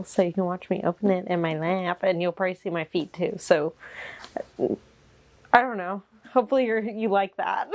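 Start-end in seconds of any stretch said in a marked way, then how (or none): 4.6-6.0 slow whispered aside. Real, not acted. To viewers, a slow shy whisper. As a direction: breathe it out shyly.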